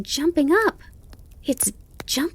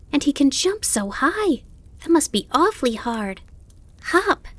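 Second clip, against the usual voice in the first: put-on high, breakneck-eager child voice; excited; 8 semitones higher than usual. A narrator's reading. Fawn describing the grasshopper's leap to his mother, excited. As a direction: gush in a high, wondering voice. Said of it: "Bambi was very excited about his conversation".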